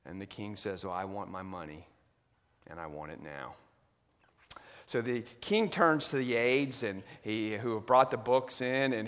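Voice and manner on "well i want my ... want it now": cold demand. Acted. King demands his money.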